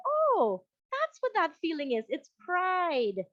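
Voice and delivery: high, bright-eyed "oh" of discovery; sudden realization. Retold or imitated. Person finally naming their own pride, with surprise.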